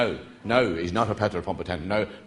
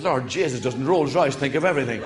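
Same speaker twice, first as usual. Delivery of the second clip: laughing; 4 semitones higher, 4 dB louder than usual. Real, not acted. Teller laughing through punchline.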